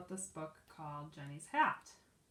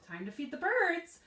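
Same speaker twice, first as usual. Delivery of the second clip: put-on eager girl; 10 semitones higher, 8 dB louder than usual. Excited girl remembers birds.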